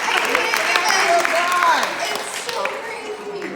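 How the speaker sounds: high, squeaky, drawn-out exclamation; overwhelmed amazement. Real, not acted. Mother marvels at her miracle birth, overwhelmed amazement. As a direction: let the voice climb, overcome with amazement. Overcome by the birth weight reveal.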